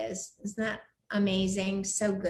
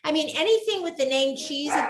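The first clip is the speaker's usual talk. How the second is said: surprised; 5 semitones higher than usual. Retold or imitated. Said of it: "They're gonna say".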